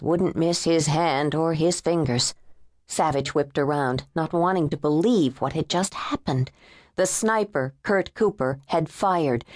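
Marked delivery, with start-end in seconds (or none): none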